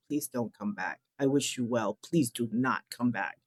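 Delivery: a happy empty nester gently shutting the door; mock parental send-off. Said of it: "like I was a happy empty nester kicking the last kid out, saying".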